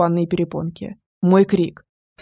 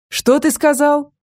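menacing slow question; 7 semitones higher, slower than usual. A narrator's reading. Rage rising, slow.

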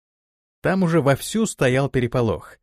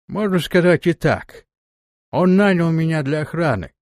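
steppe warrior voice; 4 semitones higher, 3 dB louder than usual. Acted. Erzai voice.

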